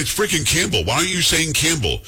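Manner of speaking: exasperated arguing. Retold or imitated. Retelling his argument with the reporter.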